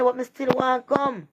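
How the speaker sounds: high, drawn-out disbelief; mock indignant protest. Voicing woman left unsatisfied.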